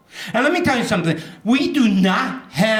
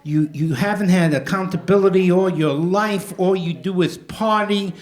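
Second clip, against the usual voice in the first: half-hammed self-reproach, rising at the end; talking to himself. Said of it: "I looked at myself in the mirror, and I said".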